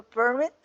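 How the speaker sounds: "permit" with the stress on MIT; stress on second syllable. Shown as a demonstration. Teacher showing learners where the force falls in "permit", second-syllable stress. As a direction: lean on the last syllable of "permit", per-MIT. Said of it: "Hacemos la fuerza en la".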